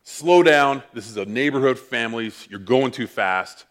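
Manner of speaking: angry voice. Retold or imitated. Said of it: "It was my angry voice".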